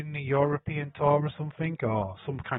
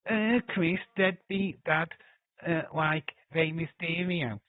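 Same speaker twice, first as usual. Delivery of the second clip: mock call-out; 6 semitones higher, 4 dB louder, slower than usual. Mock calling out Chris.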